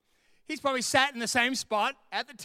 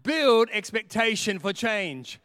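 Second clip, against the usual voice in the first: preacher raising the volume; louder slow proclamation; 5 dB louder, slower than usual. Shown as a demonstration. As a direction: build expectation for change, slow and louder. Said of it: "I need to say that one more time".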